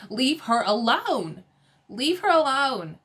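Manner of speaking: slow, drawn-out plea; exasperated plea. Real, not acted. Telling the housewives to back off Dolores, exasperated. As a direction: stretch it out, exasperated.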